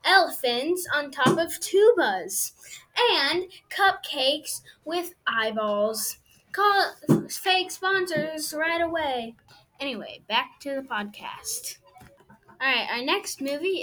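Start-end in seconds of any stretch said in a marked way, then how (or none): 0.0-9.4 salesy fake ad read; infomercial. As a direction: pitch it like a TV ad.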